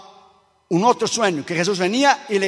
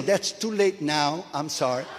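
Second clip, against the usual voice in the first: mock regret; 3 semitones lower, 5 dB quieter, slower than usual. Preacher teasing the scared man.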